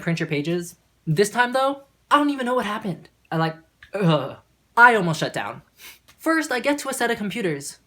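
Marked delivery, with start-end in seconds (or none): 3.9-4.4 exasperated groan. Retold or imitated. Exasperated groan while retelling.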